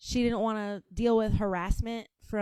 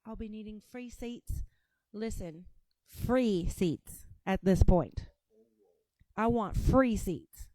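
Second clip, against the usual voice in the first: mock British accent; 3 dB louder than usual. Mimicking British woman's speech.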